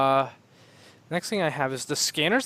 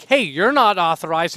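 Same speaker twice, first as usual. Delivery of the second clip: louder, mildly casual guard; casual guard droid; 4 semitones higher, 10 dB louder than usual. Retold or imitated. Guard droid casually turning away armed enemies. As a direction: say it like a bored guard. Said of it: "they're like".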